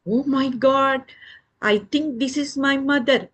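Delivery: high excited little chick voice; hopeful chick. Acted. Chick thinks it has found its mother, high and hopeful.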